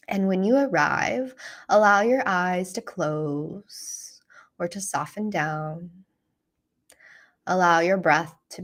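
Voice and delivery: calm, unhurried guiding voice with long pauses; guided meditation. Real, not acted. Teacher guiding listeners through a self-compassion practice, calm meditation voice. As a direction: lead them gently through the practice, leaving space.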